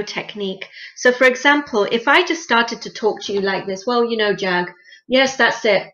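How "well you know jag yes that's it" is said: offhand, uninterested hello; disconnected greeting. Shown as a demonstration. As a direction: greet him like you barely care. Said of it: "you will feel really disconnected from me".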